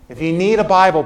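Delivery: emphasis on "need" in a falling phrase; stress on "need". Real, not acted. Preacher urging listeners to take a Bible, stressing "need". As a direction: repeat it with weight on "need". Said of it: "let me emphasize the word need".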